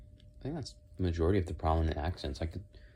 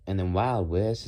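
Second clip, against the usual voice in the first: slow, loud Wild West accent; 3 semitones higher, 6 dB louder, slower than usual. Shown as a demonstration. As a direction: announce it in a Southern cowboy accent. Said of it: "is that just a southern accent".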